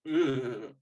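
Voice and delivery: drawn-out ugh of distaste; disgusted groan. Real, not acted. Critic reacting to needle drops, disgusted groan. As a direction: groan in dismay. Reacting to bad soundtrack choices.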